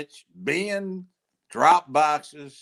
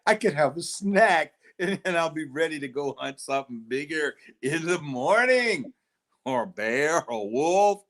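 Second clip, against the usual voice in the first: savoring predator voice. Acted. Dinosaur savoring kid.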